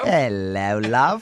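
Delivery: low, hammy British come-on; mock British accent. Host imitates English suitor flirting, mock British accent. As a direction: play a flirty Englishman, badly faked British. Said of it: "He just kept getting closer, going".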